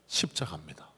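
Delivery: hushed, breathy-free whisper of 십자가입니다; 속삭이듯. Acted. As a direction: whisper it like a secret at the altar. Solemn pause at the cross.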